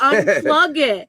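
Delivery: reliving the husband's panicked order, stretching each word; husband on the phone yelling at his wife to unplug the oven, a loud slow shout; retold urgent yell. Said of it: "He's like".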